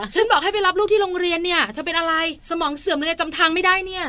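high, acted angry berating; exasperated mock telling-off; scary scolding. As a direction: scold a spouse as hopelessly forgetful. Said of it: "น่ากลัวไหม?".

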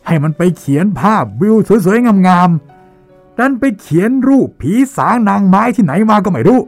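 high, loud furious rant at a painter; furious shouting. Acted. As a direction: rage and yell, pitch climbing high. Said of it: "บริพาทออกมาด้วยเสียงดังลั่นสนั่นห้อง". (ตะโกนด่าเสียงดังลั่นด้วยความโมโห)

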